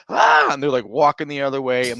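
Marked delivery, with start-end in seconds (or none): 0.1-0.5 short, loud imitated scream; mock child's scream. Dad imitating his daughter at her teachers, short loud scream. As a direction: burst out with a brief mock wail. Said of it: "she starts screaming".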